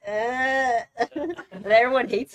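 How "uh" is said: mock crying. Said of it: "he starts crying".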